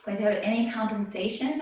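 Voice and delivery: slightly winded instructor cues; out of breath. Real, not acted. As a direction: talk while catching your breath. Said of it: "I'm a little bit out of breath from talking".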